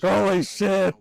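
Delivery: high, loud shocked outburst; shocked exclaim. Retold or imitated. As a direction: blurt it out in shock. Reacting to footage.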